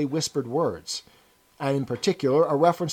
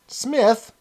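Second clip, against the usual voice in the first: surprised question; 8 semitones higher, 3 dB louder than usual. Acted. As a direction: pitch jumps up in surprise. Woman echoes the name surprised.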